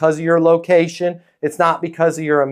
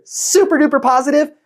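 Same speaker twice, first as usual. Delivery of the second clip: high, quick, over-positive gush; hammed-up pushy positivity; mock super positive; 11 semitones higher than usual. Shown as a demonstration. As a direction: lift it high with fake enthusiasm. Mimics over-positive tone he warns against.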